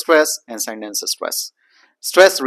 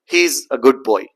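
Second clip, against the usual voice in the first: put-on quicker "good boy" still keeping the D; rapid attempt; 3 dB louder than usual. Shown as a demonstration. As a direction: run "He is a good boy" along, D intact. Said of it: "try to just speak out rapidly".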